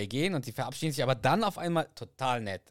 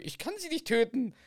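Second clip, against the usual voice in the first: tiny Carrie; 12 semitones higher than usual. Acted. Tiny Carrie refusing to kill.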